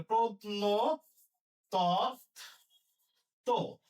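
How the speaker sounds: very slow syllable; drawn-out dictation. Shown as a demonstration. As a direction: draw out for writing. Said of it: "dictating syllable".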